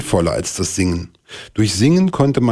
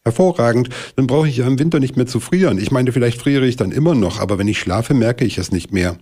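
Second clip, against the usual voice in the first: higher, fast delighted blackbird; thrilled; 5 semitones higher, faster than usual. Acted. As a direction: gush with delight at the idea. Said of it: "von dieser Idee wirklich begeistert". (begeisterter Amselhahn)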